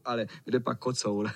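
plain reading voice

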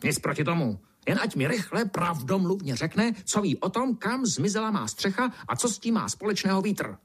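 high, peevish beetle demanding answers; grumpy beetle growling. A narrator's reading. Roofless beetle demanding the ant explain, high and peevish. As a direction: press the ant like an irritated old beetle. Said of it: "brouk zavrčel".

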